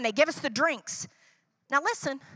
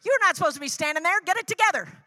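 impatient scolding; 4 semitones higher than usual. Retold or imitated. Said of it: "I have just run down".

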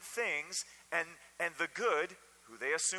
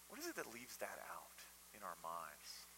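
whisper; 9 semitones lower, 15 dB quieter than usual. Real, not acted. Pastor drops to a searching hush.

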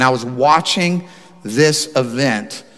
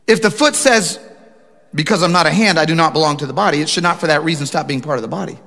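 scripture reading; 2 semitones higher than usual. Acted. Pastor reading Corinthians to the congregation, preached. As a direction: proclaim the verse.

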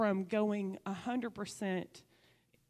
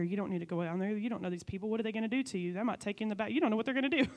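enemy whispering doubts; much faster than usual. Retold or imitated. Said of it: "the enemy talking in my ear".

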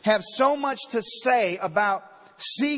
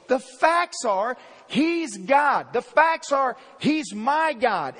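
slow, louder, each phrase landed; building declaration; 3 dB louder, slower than usual. Real, not acted. Preacher declaring to congregation, slow building emphasis. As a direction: build it, then land on MY.

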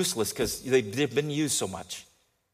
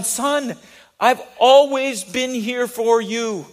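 gentle father; 8 semitones higher, 7 dB louder, much slower than usual. Retold or imitated. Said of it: "reminds that son".

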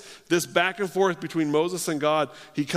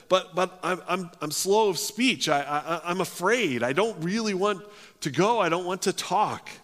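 higher, stammering excuses; mildly fearful, halting protest; acted reluctant pleading; 4 semitones higher than usual. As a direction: stumble over your words as you beg off. Reluctant, afraid Moses making excuses to God.

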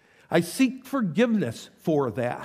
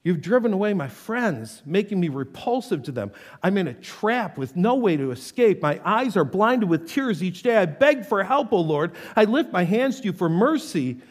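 earnest scripture reading; solemn prayer reading; psalm reading; 2 semitones higher than usual. Acted. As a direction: read the psalm like a heartfelt prayer.

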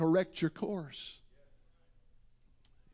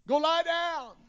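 put-on raised voice of old Eli; Eli's reply; 10 semitones higher than usual. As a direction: send the boy back to bed. Eli sends boy back to bed.

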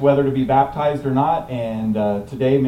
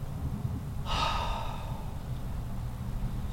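demo deep sigh; 16 dB quieter than usual. Shown as a demonstration. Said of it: "take a deep breath".

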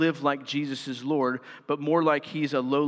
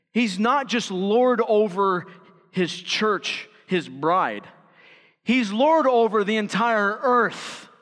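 raised-voice preaching with heavy stresses; emphatic preaching; 7 semitones higher, 6 dB louder than usual. Acted. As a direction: drive the point home to the congregation. Preaches at full force.

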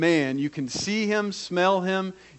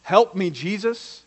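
higher, slow plea; slow, raised-pitch appeal; call for help; 5 semitones higher than usual. Acted. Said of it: "It's a call for help".

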